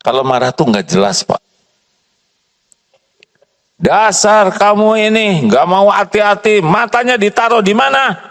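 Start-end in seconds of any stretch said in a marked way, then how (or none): 3.8-8.2 angry demo. Shown as a demonstration. Mistress scolding careless maid angrily. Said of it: "Marah atau tegas?".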